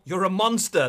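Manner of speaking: loud playful accusation; mock outrage. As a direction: shout it in joking disgust. Mock outrage at co-host's game taste.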